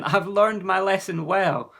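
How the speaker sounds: put-on cheerful boy. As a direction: answer with a bright grin. Jonathan answers cheerfully.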